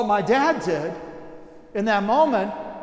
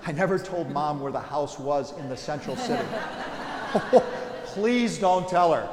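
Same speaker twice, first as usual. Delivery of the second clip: chuckling through a confession; laughing; 3 semitones lower than usual. Real, not acted. To the congregation, a giggling aside. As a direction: laugh while admitting it.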